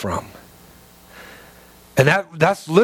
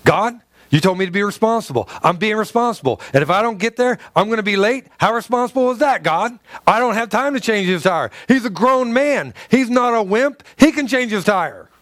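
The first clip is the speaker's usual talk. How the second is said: higher, heated protest at God; upset arguing; 5 semitones higher than usual. Retold or imitated. Preacher arguing with God in his car, upset and complaining. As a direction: argue back, getting worked up. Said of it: "Now I'm getting upset".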